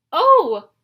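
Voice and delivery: high, loud startled yelp; high loud panicked yelp. Acted. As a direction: squeal in alarm. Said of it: "Grover yelped".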